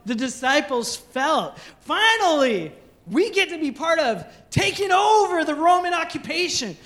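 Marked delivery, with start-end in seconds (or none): 1.8-6.8 higher, faster eager hopes of glory; imagined disciple excitement. Retold or imitated. Pastor voices the disciples expecting glory, higher and eager. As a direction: sell the dream of taking Jerusalem.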